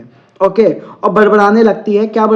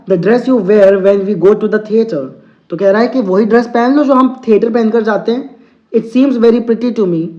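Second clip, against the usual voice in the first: slow, deliberate English reading; teacher reading a story to students, very slow; slow read-aloud; 2 semitones higher, slower than usual. Acted. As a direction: read each word out slowly for the class. Teacher reads story text aloud.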